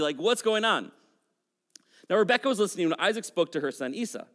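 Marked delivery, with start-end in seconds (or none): 0.2-0.9 lightly voiced busybody, higher pitch; a hint of an eavesdropper's prying question; nosy busybody. Mother listening in at the tent, lightly nosy. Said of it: "a bit of a busybody".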